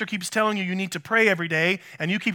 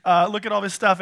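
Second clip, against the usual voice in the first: excited apostles; 2 semitones higher than usual. Retold or imitated. Pastor voicing the apostles thrilled by the crowd, mock giddy. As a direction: gush over the crowd like a thrilled disciple. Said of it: "they're really excited".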